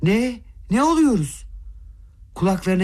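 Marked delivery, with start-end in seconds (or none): 0.0-1.5 shrill high startled cry, much higher; shocked outcry. A narrator's reading. Mother hears the prince deny the proposal, stunned shriek. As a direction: shriek in disbelief. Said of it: "dehşetle haykırdı birden".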